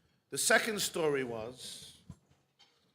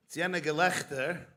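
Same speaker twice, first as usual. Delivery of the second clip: normal talking voice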